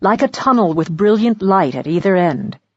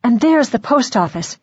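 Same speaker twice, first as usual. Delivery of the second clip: in relief; 4 semitones higher than usual. Acted. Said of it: "said Missus Polifax in relief".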